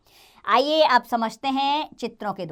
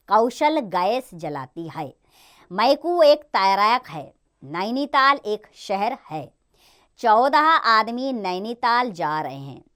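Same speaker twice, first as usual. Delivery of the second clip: clear, slow sentence reading for pupils; slow reading aloud; slower than usual. Shown as a demonstration. Teacher reading example sentences slowly to children. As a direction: read each example sentence deliberately.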